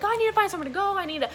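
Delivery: high, anxious mock panic; fretting aloud, lost and stranded; mock panic, phone dead and lost in California; panicked inner voice. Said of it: "crying, and I'm like".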